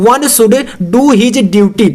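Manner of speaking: one should do his duty, stretched out; slow teacher dictation. Shown as a demonstration. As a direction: dictate each word slowly. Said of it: "dictating slowly".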